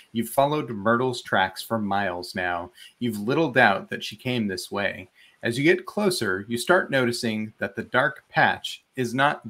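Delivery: measured game master's read-aloud; story narration. A narrator's reading. Game master reads the ruins excerpt to players, story narration. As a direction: narrate the scene with clear storytelling phrasing.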